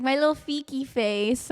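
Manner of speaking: imitated pet-name call. Husband calls his wife by pet name, lightly imitated. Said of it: "now he calls me that. He's like".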